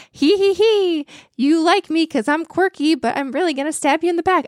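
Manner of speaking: high, sly trickster voice with a giggle; haunting Loki impression. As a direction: tease like a smug backstabbing god. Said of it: "an absolutely haunting Loki impression just now".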